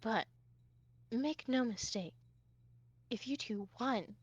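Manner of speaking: very soft, measured warning; sighing warning. Acted. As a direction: warn quietly, pausing between phrases. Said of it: "kinda sighs and she goes".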